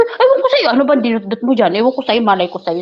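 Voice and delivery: starts high, mock dismissive; sassy brush-off. Playing dumb to the coworker about the phone, sassy. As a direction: shrug it off, feigning innocence. Her retold retort.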